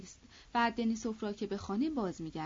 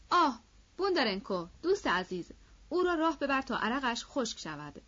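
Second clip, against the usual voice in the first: brotherly warmth; 5 semitones higher, 4 dB louder than usual. A narrator's reading. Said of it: "با همان ملاتفت و صمیمیت و خوشرویی برادرانه".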